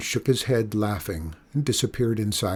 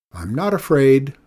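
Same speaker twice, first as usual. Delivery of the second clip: defiant; 3 semitones higher, 6 dB louder than usual. Acted. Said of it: "She laughed and thumbed her nose".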